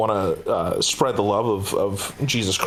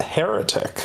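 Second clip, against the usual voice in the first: whispered title; 11 semitones higher than usual. Real, not acted. Revealing the film title.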